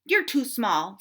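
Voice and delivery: loud, curt dismissal; snapped. Acted. Cat snaps at the small squirrel, loud. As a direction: cut the squirrel down. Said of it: "snapped the cat".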